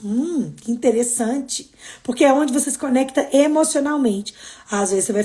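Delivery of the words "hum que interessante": calm curious remark. Shown as a demonstration. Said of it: "Em vez de ficar com raiva".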